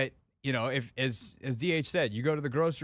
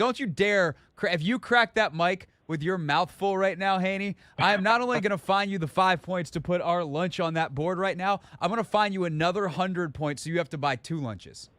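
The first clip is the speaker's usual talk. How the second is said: playful stern warning, raised voice; mock scolding; 4 semitones higher than usual. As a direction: threaten a coworker for fun. Teasing a cohost who is eating.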